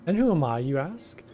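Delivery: whiny kobold. Acted. Kobold foreman Gigu complaining to the hero, wheedling. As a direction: play a self-pitying kobold pleading with a stranger.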